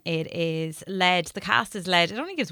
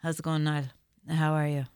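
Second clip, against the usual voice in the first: lower, lightly put-on Irish Midlands accent; 5 semitones lower, 3 dB quieter than usual. Shown as a demonstration. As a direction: attempt an Irish Midlands greeting. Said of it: "Midlands is more like".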